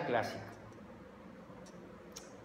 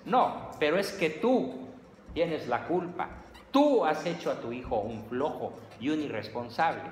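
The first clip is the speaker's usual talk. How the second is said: mom yelling at dad; 3 semitones higher than usual. Retold or imitated. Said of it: "la mamá le está gritando al papá".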